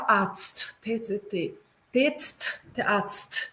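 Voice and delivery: "atst, tetst, tatst" with every final consonant released sharply; consonant clusters. Shown as a demonstration. German teacher showing students the consonant junctions, consonant clusters. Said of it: "todas as junções consonantais".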